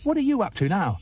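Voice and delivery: very high monkey greeting; cheeky monkey. Acted. Monkey greets the crocodile, very high and chirpy. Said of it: "said Mugglewump".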